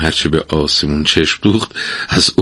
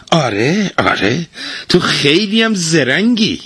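sarcastic; 10 semitones higher than usual. Acted. Wife mocking husband.

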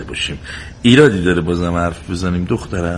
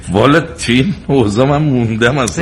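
put-upon, griping complaint; grumbling; 5 semitones higher, 5 dB louder than usual. Acted. Husband grumbles to his wife about the stew, grumbling. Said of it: "بازم شروع کرد به قرقر کردن".

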